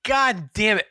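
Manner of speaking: cursing through a laugh, pitch up; laughing curse. Retold or imitated. Stuck on the on-ramp to a closed restaurant, laughing curse. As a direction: swear while cracking up at the mistake.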